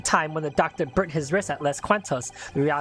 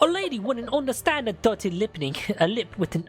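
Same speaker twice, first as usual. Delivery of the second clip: put-on British accent; 4 semitones higher than usual. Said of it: "whatever you're doing just sounds foreign".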